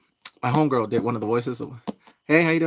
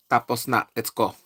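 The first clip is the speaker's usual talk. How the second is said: put-on Filipino accent. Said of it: "I have to do it like that, that accent".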